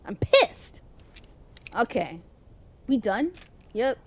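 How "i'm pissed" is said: higher-pitched burst of annoyance; exasperated outburst. Real, not acted. Player fed up with a slow game hero, exasperated outburst. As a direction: let it jump up in exasperation.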